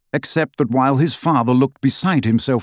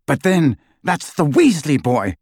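shouted; 4 semitones higher than usual. Acted. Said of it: "shouted Lucius".

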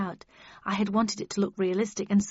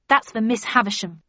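angry; 6 dB louder than usual. Acted. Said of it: "I told him".

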